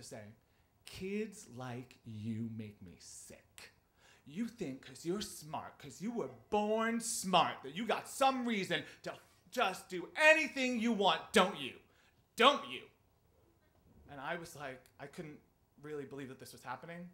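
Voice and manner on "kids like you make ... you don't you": deliberate, mounting angry rant; screaming teacher. Retold or imitated. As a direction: imitate a teacher's tirade, starting contained and ending shouted. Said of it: "he started to scream at me".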